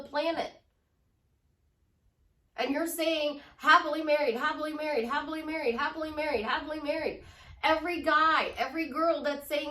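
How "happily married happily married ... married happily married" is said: imitated affirmation, rattled off without a break; rote repetition. Manifester repeating an affirmation to the universe, in a rote chant. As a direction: chant it over and over in one repeating tune.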